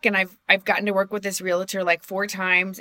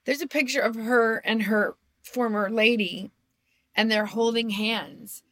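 choked up; 4 dB quieter than usual. Real, not acted. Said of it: "I'm gonna get choked up".

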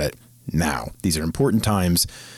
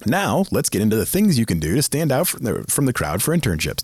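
unhurried, more emphatic redo; slower retake; 3 semitones higher than usual. Shown as a demonstration. Host correcting a rushed line, slower and more deliberate. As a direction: take the line again with more space and lift. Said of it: "I said that really fast".

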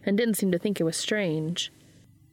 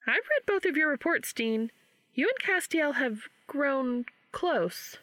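a hint of a higher Charlie, drawn out slowly at the end; Charlie, slow and knowing; 7 semitones higher than usual. A narrator's reading. Charlie teasing Dean about his closeness to Castiel, slow and lightly higher. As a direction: let Charlie slow down on the last line.

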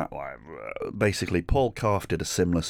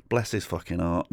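ordinary talk

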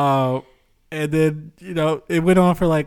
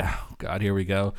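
breathy whisper, lower and softer; whispered dread; 6 semitones lower, 8 dB quieter than usual. Retold or imitated. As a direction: groan it to yourself under your breath. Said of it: "I'm like".

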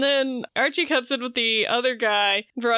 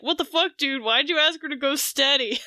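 retold indignant challenge, pitched up; mock confrontation; 2 semitones higher than usual. One twin confronting the other, mock exasperated.

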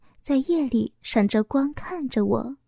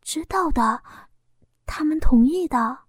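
muffled quiet; 3 semitones higher than usual. A narrator's reading. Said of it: "嘴在被窝里小声地说道".

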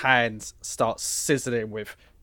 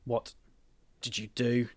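tag; 7 dB quieter than usual. Acted. Woken character's first accusing words.

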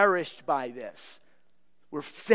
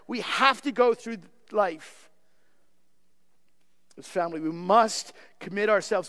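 ordinary talk

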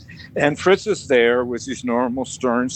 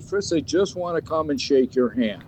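mildly pleading, rising higher toward the end; retold coaxing; 3 semitones higher than usual. Asking Fritz just to shake his hand, retold mild plea. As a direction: coax lightly, ending on a higher "okay?".

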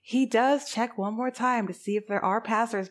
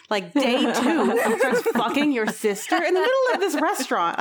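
fast, higher tactless mom voice; mock gushing mom; 4 semitones higher, faster than usual. Mom reminding Stella of her ex, in a mock gush. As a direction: rattle it off like an oblivious mom. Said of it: "The mom legit comes over".

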